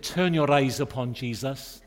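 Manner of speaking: a hint of a Welsh accent, lilting the line; light Welsh accent. Preacher mimics a Welsh man praying in a prayer meeting, light Welsh accent. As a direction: lightly imitate a Welsh brother praying aloud. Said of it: "I hope I can do the accent".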